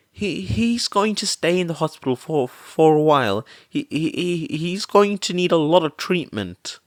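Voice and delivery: stammering distress. A narrator's reading. Mother reporting son's injuries.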